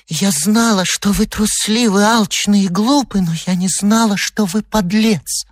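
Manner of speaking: high-pitched wifely fury; outraged, building to a drawn-out final insult; indignant outcry. Acted. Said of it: "вскричала молодая женщина".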